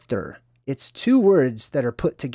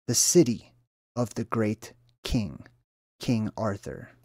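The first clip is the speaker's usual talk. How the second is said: scripture reading. Acted. Reads a Bible verse aloud.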